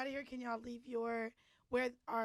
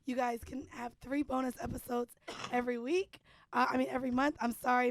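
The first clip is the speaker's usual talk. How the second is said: voice gone; 5 dB louder than usual. Real, not acted. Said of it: "my voice is gone".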